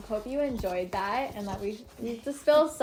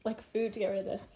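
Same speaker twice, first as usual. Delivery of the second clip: burned tongue; 3 dB quieter, faster than usual. Real, not acted. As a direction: mouth on fire from hot sauce. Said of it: "My mouth is, like, on fire".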